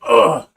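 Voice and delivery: Shaq falling grunt. Retold or imitated. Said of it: "he's just like".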